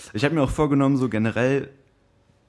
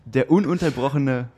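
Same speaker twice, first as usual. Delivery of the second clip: slow, grand ring introduction; boxing ring announcer; slower than usual. Acted. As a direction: announce the fighter like a title bout.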